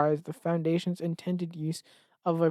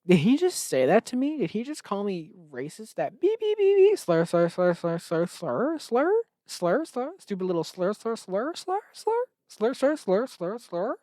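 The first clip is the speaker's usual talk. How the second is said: high-pitched mock fury, spitting out slurs; shrieking pretend outrage at the accusation; mock outraged rant; 5 semitones higher than usual. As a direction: rant in hammed-up, wounded outrage. Acted outrage at being called racist.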